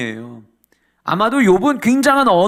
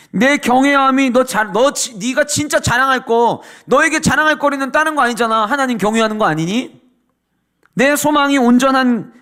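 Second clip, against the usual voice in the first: a touch of sarcasm; 3 semitones higher than usual. Acted. Eliphaz needling suffering Job, lightly sarcastic. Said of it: "약간의 비아냥거림이 육 절에 등장합니다".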